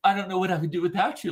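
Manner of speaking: quick, dry sarcastic thanks; mocking sarcasm. Woman mocking the helpful Ken, quick sarcasm. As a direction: toss it off with mock gratitude. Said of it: "but, like".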